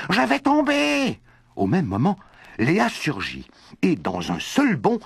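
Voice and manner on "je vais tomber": slow, much higher, loud and scared; a boy clinging to a branch, terrified; panicked cry. Acted. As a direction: drag out the fear of falling. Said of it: "cria-t-il".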